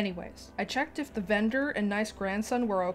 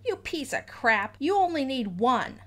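mock scream; 4 semitones higher, 4 dB louder than usual. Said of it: "E G screamed".

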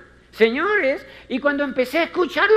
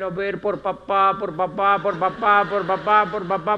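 put-on baby talk coaxing. Coaxing a child's finger.

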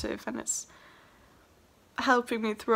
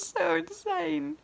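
higher breathy whisper, leaning on so; tearful whisper; 6 semitones higher than usual. Real, not acted. Moved by the filming date, tearful whisper. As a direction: whisper it through tears.

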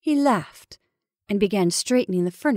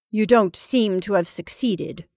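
dry, understated remark. Acted. Caroline to Henry about the shadow, dry. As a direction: puncture his explanation drily. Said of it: "remarked Caroline dryly".

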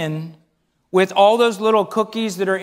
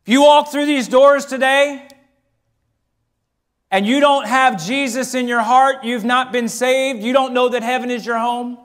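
preaching. Acted. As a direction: urge them to receive Christ today. Preacher's altar call.

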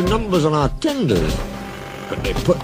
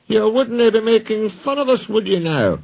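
menacing question; 13 semitones higher than usual. Acted. Donald to Gordon, mock-polite menace. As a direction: lean in as a warning. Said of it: "asked Donald".

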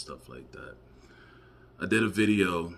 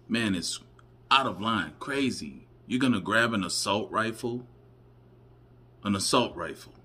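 incredulous outrage; 5 semitones higher, 6 dB louder than usual. Real, not acted. Commentator outraged at rifle.

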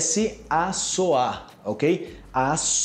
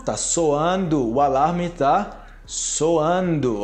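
slow demo; slower than usual. Shown as a demonstration. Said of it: "E o outro é soar".

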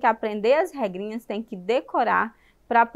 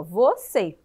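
"Você" split into vo and cê; syllable by syllable; 3 semitones lower than usual. Shown as a demonstration. Teacher showing children only two syllables, clearly split. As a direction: count out "Você" in two distinct beats. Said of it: "aqui nós só temos duas".

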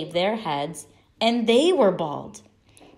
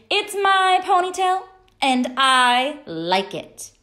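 put-on defiant little girl; 8 semitones higher, 5 dB louder than usual. A narrator's reading. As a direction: stand up to the bullies in a squeaky kid voice. Stephanie defiant to kids.

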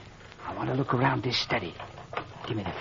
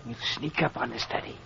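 hushed plan; 2 semitones lower, 9 dB quieter, faster than usual. Acted. Planning to sneak up.

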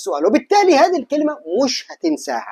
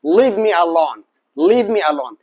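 slow repeat; 3 semitones lower, much slower than usual. Shown as a demonstration. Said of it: "كرر معايا".

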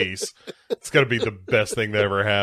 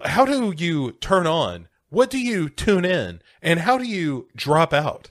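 higher, measured questioning; quizzical alien; 5 semitones higher than usual. Acted. Alien Key questions Milo in elevator, quizzical and measured.

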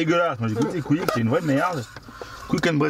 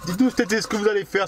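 the same ask, pitched higher; higher retake; 5 semitones higher, faster than usual. Shown as a demonstration. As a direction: start again higher and brighter. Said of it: "Pétou va pas savoir".

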